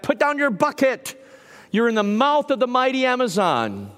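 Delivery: high called reply; yelling back. Retold or imitated. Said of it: "the fishermen would yell back".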